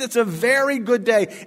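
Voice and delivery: preacher shouting the refrain to the church; exultant refrain. Acted. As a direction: proclaim it like good news.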